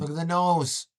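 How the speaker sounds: high, loud look-at-this shout; loud mocking call. Real, not acted. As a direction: point it out loudly with glee. Mocking reaction to video.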